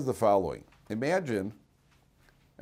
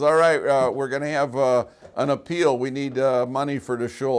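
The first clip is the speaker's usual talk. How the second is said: rabbi's appeal; 3 semitones higher, 7 dB louder than usual. Retold or imitated. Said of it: "the rabbi gets up in shul and says".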